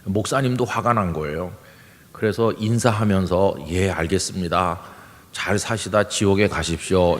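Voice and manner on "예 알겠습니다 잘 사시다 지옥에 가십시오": restrained, courteous farewell, slightly lowered; politely spiteful. Retold or imitated. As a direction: imitate a pastor hiding anger under politeness. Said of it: "정중하게 인사를 했대요". (화를 누른 정중한 인사 흉내)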